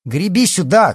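high, loud call across water; urgent shout. A narrator's reading. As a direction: shout a rescue command. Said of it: "крикнула Алиса".

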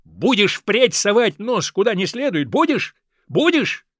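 furious father shouting at son; angry shout. Acted. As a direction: berate him, rising to a yell. Father scolding, shaking ear.

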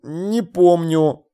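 very slow, resigned admission; sheepish, drawn-out answer; sighing. A narrator's reading. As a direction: let it out on a sigh. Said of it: "вздохнул я".

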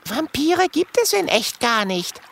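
put-on high girl's voice; young dragon girl. Lulu voiced.

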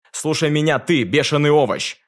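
loud angry shout, high. A narrator's reading. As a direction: yell it right into his ear. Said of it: "закричал Франц". (крик Франца)

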